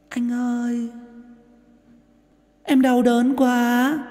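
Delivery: high, slow, pained ghost voice; demonic double voice. Shown as a demonstration. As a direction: wail it like a suffering demon. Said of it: "thêm vào những cái effect giọng của ma quỷ".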